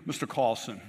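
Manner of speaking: badly faked English accent; terrible English accent. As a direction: attempt a poor English accent, lightly. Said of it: "That was a terrible English accent".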